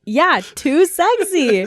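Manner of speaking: slow, high, loud sultry drawl. Pretend. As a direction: stretch it out seductively. Drawn-out joke repeat.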